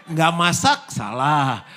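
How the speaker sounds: loud, high cry of "Nggak masak"; exasperated outburst. Acted. Wife fed up with husband's complaints, loud exasperation. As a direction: throw up your hands, loud.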